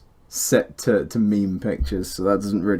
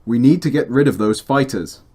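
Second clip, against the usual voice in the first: voice line read; 4 dB louder than usual. Shown as a demonstration. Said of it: "doing your engine".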